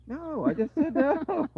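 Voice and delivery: exasperated loud high repeated no; insistent correction. Retold or imitated. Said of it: "And then walks right away".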